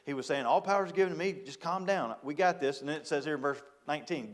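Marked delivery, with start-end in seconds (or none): 0.4-2.8 higher, gentle calming voice, not bragging; Jesus calming his disciples, a light reassuring tone. Retold or imitated. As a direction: soothe worried friends: calm down, we've got this. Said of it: "he wasn't trying to talk to them braggadocious".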